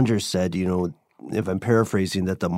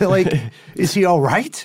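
high, louder imitation of an anxious fan; concerned listener; 11 semitones higher, 4 dB louder than usual. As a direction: press the question as a worried listener would, voice raised. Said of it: "is probably going to say".

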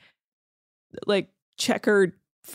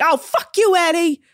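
loud, higher playful outburst; mock mad; 7 semitones higher, 4 dB louder than usual. Host getting mad at a dumb impression, mock-angry outburst. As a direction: cuss him out in gleeful exasperation. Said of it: "Getting mad at Eddie".

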